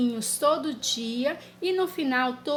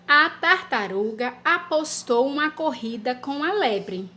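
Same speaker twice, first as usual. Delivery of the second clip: dictation pace. Shown as a demonstration. Teacher dictating a sentence to children. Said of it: "ou dois".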